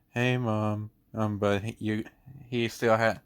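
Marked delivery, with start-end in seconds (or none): 0.1-0.9 drawn-out, put-on in-trouble greeting; "I'm in trouble" voice. Student on the phone to his mom, feigning being in trouble. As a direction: imitate a kid pretending he's in trouble. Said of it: "he, like, put on this".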